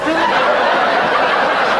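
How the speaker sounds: laughing it out, slow and high; wheezing through laughter; breathy laugh over the words. Retold or imitated. Punchline repeated, laughing.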